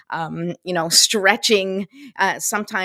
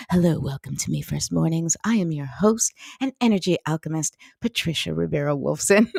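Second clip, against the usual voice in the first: mild radio announcer intro; understated announcer welcome; 2 semitones lower than usual. Acted. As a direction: introduce the show like a radio host, lightly. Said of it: "I said it in my radio voice".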